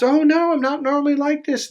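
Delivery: very high, pleading protest; mock empath in falsetto; flustered empath. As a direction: squeak out a high-pitched, mock-defensive excuse. Empath protesting to the narcissist's friends.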